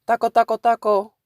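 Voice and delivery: imitated taunting yell, high and loud; high-pitched mock heckle of repeated words. Friend heckling a Mexican lady, imitated yell. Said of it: "he's yelling at a Mexican lady".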